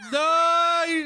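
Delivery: high, loud shout of protest. Real, not acted. Fan protesting a twist, high loud shout. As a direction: yell it at the screen.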